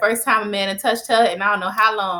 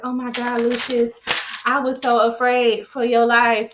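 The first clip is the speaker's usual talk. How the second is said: mock gushing, words stretched a little; lightly dramatic pleading; 3 semitones higher than usual. Retelling Tracy's relief to Lucius, lightly dramatic pleading. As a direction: put on a touch of melodramatic concern.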